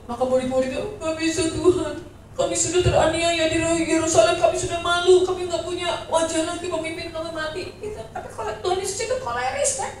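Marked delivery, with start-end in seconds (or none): 1.0-7.6 higher, insistent mock complaint; protesting disciples. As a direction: plead helplessly in a raised pitch. Acts the disciples protesting to Jesus.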